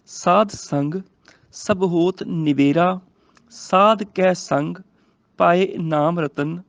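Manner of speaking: slow, measured verse reading; scripture recitation. Shown as a demonstration. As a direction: recite slowly, phrase by phrase. (ਹੌਲੀ, ਠਹਿਰਾਅ ਨਾਲ ਗੁਰਬਾਣੀ ਪਾਠ)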